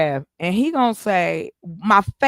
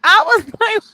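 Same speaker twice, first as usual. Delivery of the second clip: high, laughing how-could-you; laughing disbelief; 12 semitones higher, 4 dB louder than usual. Real, not acted. Retelling her reaction to Dwayne Wade, laughing and high. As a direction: laugh through the question.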